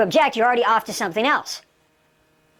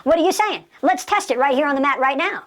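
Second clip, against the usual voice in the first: higher-pitched, goading challenge; rapid-fire dare, pitched up; confrontational challenge; 4 semitones higher than usual. Shown as a demonstration. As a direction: dare them to back it up. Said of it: "you're basically saying".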